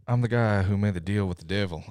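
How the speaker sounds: a lightly voiced Nicolas Cage, intense and gruff; a hint of movie-star menace; Nick Cage impression. Podcaster hamming up Nicolas Cage for the listeners, lightly voiced. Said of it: "here's my best Nick Cage impression".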